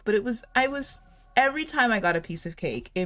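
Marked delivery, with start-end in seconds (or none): none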